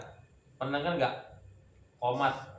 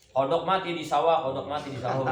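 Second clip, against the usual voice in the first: joking mishearing; faster than usual. Pretend. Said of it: "jangan salah dengar juga".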